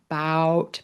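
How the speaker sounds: "Bout" with the ow vowel /paʊt/; wrong vowel demo. Shown as a demonstration. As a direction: say "Bout" rhyming with cow. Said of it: "bout, that's a different word".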